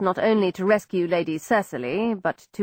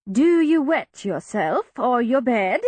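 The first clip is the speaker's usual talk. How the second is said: forced, awkward question; 4 semitones higher, slower than usual. A narrator's reading. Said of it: "with visible effort, made herself say".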